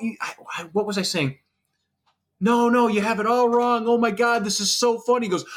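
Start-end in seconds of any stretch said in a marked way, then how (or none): 2.4-5.3 amused protest. Retold or imitated. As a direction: play it like you can't believe they think it's real. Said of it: "I start laughing".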